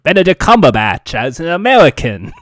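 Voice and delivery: Benedict Cumberbatch in a lightly put-on New York American accent; a mild, low American accent as the British actor; bad American accent. As Cumberbatch playing an American, a bad New York American accent. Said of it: "he'll just do his bad American accent".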